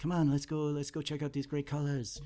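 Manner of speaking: put-on clumsy, overdone Spanish accent. Imagining Ricky on an LSD trip, the speaker voices him in a really bad Spanish accent. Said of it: "I'm gonna do a really bad Spanish accent".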